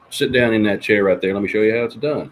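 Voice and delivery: loud, forceful song-character line; acted challenge. Streamer voicing the reply from the song, loudly. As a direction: call it out like a cocky challenge. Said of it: "He says".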